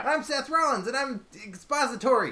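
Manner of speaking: high, loud ratty wrestler voice; Seth Rollins impression. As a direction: shout it as a ratty heel wrestler. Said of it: "Seth Rollins is just so mad".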